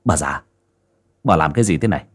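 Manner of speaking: low, stunned first demand; stunned anger. Acted. Son confronts his mother over the letter, low and stunned. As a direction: ask it low as the shock sinks in. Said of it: "mắt gã trợn lên, máu nóng sộc lên não".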